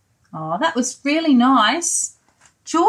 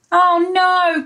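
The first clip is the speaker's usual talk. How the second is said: dismayed cry; 5 semitones higher than usual. Acted. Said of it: "cried George".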